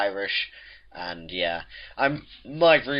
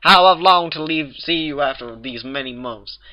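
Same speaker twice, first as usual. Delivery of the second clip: higher, overwrought lovesick declaration; melodramatic exclamation; 5 semitones higher, 5 dB louder than usual. A narrator's reading. Applejack reunited with Rarity, melodramatic declaration. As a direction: pour out your longing like a stage lover. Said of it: "Applejack exclaimed, nearly collapsing".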